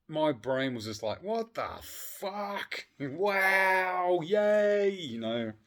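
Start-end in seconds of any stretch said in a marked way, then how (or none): 1.2-4.9 put-on high, loud childlike glee; excited little kid. Grown man reliving boyhood joy, squealing like a kid. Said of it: "I was being a little kid".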